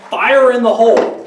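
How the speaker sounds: drawn-out demonstration call; mild demo yell. Shown as a demonstration. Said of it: "you have to yell".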